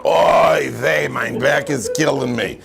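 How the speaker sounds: a hint of an old zaidi krechtzing as he sits; a touch of an old man's kvetch; old man's groan. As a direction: sigh it out like a grandfather with a sore back. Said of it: "a krechs your Zaidi made when he sat down".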